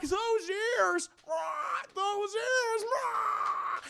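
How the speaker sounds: high, hammed-up villain hilarity; Eon. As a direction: crow it in a high mocking cackle. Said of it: "He starts laughing at his big dumb ears".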